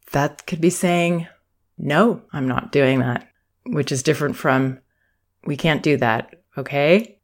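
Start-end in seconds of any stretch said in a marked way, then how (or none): 1.8-3.3 confident no. Shown as a demonstration. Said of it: "That's not a confident response". 5.4-7.2 hesitant no that trails into asking permission; unsure, pleading no. Shown as a demonstration. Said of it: "That's not a confident response".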